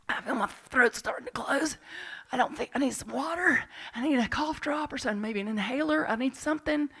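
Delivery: lightly hammed-up panicky rush; mock panic. Retelling panicked thoughts in the sweat lodge, mock panic.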